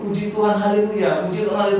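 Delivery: upbeat chant of haleluya; cheerful praise. Shown as a demonstration. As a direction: lead the kids in a cheer. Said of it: "berikan pujian syukur".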